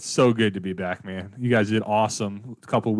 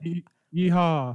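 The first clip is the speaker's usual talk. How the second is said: yeehaw; 7 semitones higher, slower than usual. Pretend. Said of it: "might not sound like the best yeehaw".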